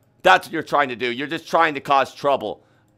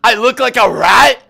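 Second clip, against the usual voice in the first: slower, louder, higher affront; slow indignant outrage; 6 semitones higher, 8 dB louder than usual. Acted. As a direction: drag it out in disbelief. Offended host repeats.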